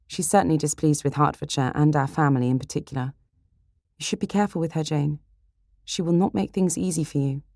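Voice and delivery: a hint of concerned sister; cautioning sister Elizabeth. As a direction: warn your sister with care.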